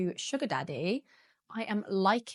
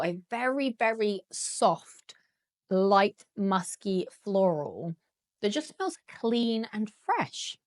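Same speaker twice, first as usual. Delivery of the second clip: cracking, strained voice; slower than usual. Real, not acted. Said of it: "my voice is cracking at the moment".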